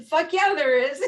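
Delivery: a playful mock yell; mock outburst. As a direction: throw it back at him, half-joking. Retold outburst at husband.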